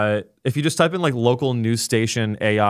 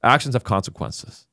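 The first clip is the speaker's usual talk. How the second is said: lightly put-on Texas accent. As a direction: say it like a stern Texan, lightly. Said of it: "so I'm gonna talk like a Texan".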